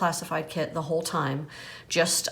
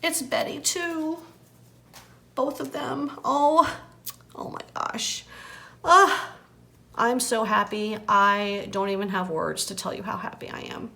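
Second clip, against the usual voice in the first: high, breathless joy close to tears; squealing with delight, almost tearful; overjoyed, near tears; 5 semitones higher than usual. Real, not acted. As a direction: gush like you might cry from happiness. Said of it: "I'm almost about to cry".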